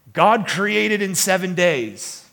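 put-on loud, drawn-out Texas accent; amateur Texas drawl, declaring it firmly. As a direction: imitate an emphatic Texan churchgoer. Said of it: "I'm doing the accent now".

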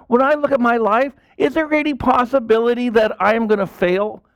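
soaring preacher's declaration; fervent preaching peak. Real, not acted. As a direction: drive the point home with conviction. Preaching climax, high and loud.

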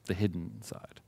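hushed dramatic whisper. Real, not acted.

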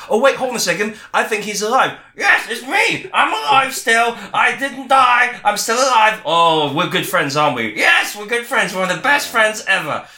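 high squeaky crow puppet insisting he's alive. Acted. Host makes the dead crow puppet claim he's alive. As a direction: chirp it high and a bit loud.

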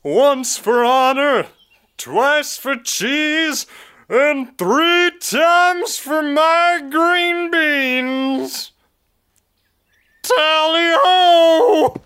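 pompous battle cry, drawn out; hammy charging prophet. Acted. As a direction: overblown heroic war leader.

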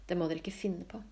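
whispered, conspiratorial aside; secretive whisper. Acted. Mother whispers a secret to the girls, conspiratorial.

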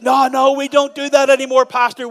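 mock reformed thief. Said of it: "they said".

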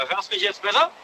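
distant hands-free car phone sound; talking from far off the mic; on speakerphone. Real, not acted. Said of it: "Kein Unterschied gemerkt".

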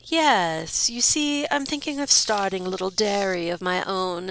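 smooth aristocratic voice; a sly noble; lordly Count. Acted. Count flatters the farmer, smooth and sly.

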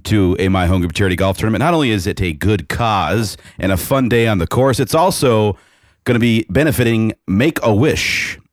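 upbeat event announcer read; promo voice. Pretend. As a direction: pitch the tournament like a radio spot. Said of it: "put on your best promo voice".

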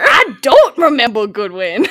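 hammed-up Southern impression, drawn out; Jenna Marbles. Shown as a demonstration. Podcaster re-does the line for co-hosts, mock Southern. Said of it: "I was doing a Jenna Marbles impression".

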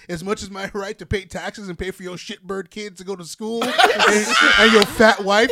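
lightly voiced grumpy old man. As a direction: grumble it, ending in a slow shout. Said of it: "Sound like a grumpy old man".

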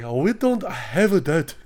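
put-on drive-thru worker in caricatured Asian accent; imitated Asian accent. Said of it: "it's literally me doing the Asian accent".

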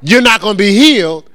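pain's verdict. Acted. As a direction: voice pain laying down its verdict. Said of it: "if pain and sickness say".

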